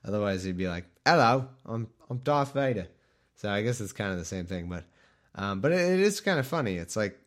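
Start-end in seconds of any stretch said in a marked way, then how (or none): 1.1-2.9 high-voiced Vader. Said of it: "has to be James Earl Jones".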